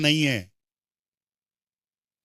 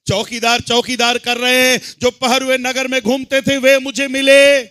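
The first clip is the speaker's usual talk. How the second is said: raised declamation, swelling at the end; forceful preaching; 4 semitones higher, 7 dB louder than usual. Real, not acted. Preacher tells of watchmen in the city, forceful preaching. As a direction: proclaim the verse to the hall.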